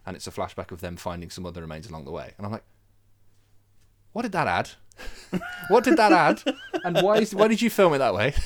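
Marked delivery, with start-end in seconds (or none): 4.1-8.3 louder and higher, laughing in disbelief; half-laugh it, baffled and loud; incredulous laughing rant. Retold or imitated. Mocking the film to his co-host, laughing loud disbelief. Ranting at the film's directing.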